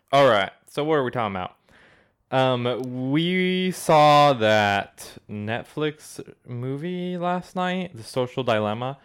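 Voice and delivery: light put-on Southern accent, ranting; a hint of a Southern accent for a mock rant. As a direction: play a Southern conspiracy ranter in a mild Southern accent. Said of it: "talking in a Southern accent".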